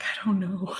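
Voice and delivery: breathy, unvoiced whisper through tears, retold; a mild retold sob-whisper; tearful whisper. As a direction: whisper it as if choking up. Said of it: "like, bawling".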